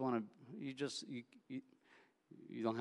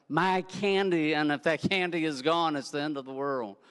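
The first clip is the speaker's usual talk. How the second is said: mock child lament; 4 semitones higher, 7 dB louder than usual. Kid voiced, end of world.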